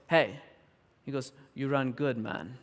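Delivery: low, soft attempt at broken English. Ethiopian runner praises a rival after the race, gentle broken English. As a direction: lightly imitate a foreign runner's broken English, quietly. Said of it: "He says to me in broken English".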